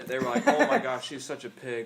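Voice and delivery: mock-appalled; mock outrage. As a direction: imitate scandalized critics, laughing. Mocking online outrage at Trump.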